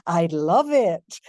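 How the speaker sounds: drawn-out, loud, playful delivery. Acted. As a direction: savor it slowly, with playful emphasis. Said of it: "you're in this playful".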